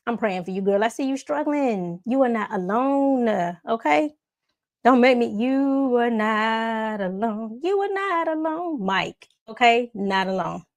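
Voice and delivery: lightly voiced, soothing stranger comforting a struggler; reassuring encourager. A stranger consoles a struggling recruit, soothing and reassuring.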